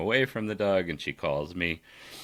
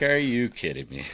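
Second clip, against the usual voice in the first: higher, louder amused disbelief; 5 semitones higher, 4 dB louder than usual. Retold or imitated. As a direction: react in laughing disbelief. His laughing reaction retold.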